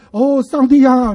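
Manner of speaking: slow, drawn-out mock prayer cry; lightly mocked fervent prayer; imitating loud prayer. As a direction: ham up a table-thumping pray-er. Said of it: "他一边祷告一边拍桌子".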